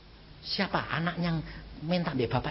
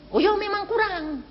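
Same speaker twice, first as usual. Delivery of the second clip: higher, put-on voice; mock sheepish admission. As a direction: play it coy and sheepish. Retold admission to caller. (pengakuan malu-malu yang dibuat-buat)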